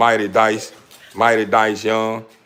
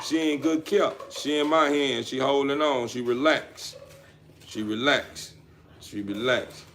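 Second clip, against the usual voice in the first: softer and softer, lulling a sleeping puppy; soothing hush; 4 semitones higher, 7 dB quieter than usual. Real, not acted. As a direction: settle the pup, fading down. Puppy falling asleep in hand.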